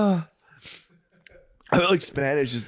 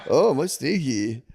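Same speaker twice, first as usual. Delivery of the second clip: mock teacher; 4 semitones higher, slower than usual. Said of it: "teacher in Spanish be like".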